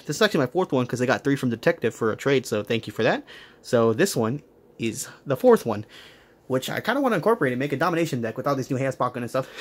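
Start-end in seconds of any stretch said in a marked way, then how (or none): 6.5-9.5 out of breath. Real, not acted. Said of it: "I'm out of breath".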